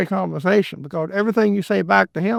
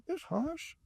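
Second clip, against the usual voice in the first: a touch of indignant pushback, higher; lightly voiced retort to a long-winded talker; exasperated inner retort; 6 semitones higher than usual. Stuck at a business hearing a man repeat himself, mildly indignant. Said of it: "I thought".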